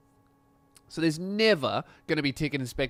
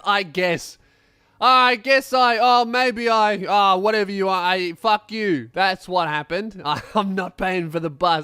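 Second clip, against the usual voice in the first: louder, casual don't-care excuse; careless teen shrug; 2 semitones higher, 6 dB louder, slower than usual. Retold or imitated. Schoolkid without a ticket, louder casual excuse. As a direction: brush it off, no effort to lie. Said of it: "he just goes".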